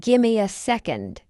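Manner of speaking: measured, careful "Gimme a second"; slow model. Shown as a demonstration. Teacher models the phrase for learners first, slowly. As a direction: take time over "Gimme a second". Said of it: "fast English is not difficult".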